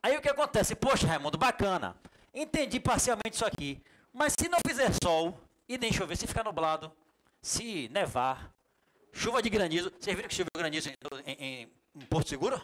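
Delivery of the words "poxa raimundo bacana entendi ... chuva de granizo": lightly voiced puzzled student; mock student question. Student pushes teacher Raimundo with odd weather cases, mildly hammed.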